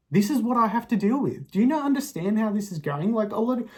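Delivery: character moaning about his burden, pitched high and loud; exasperated martyr. Acted. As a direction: sound put-upon and aggrieved. Self-pitying exasperated outburst.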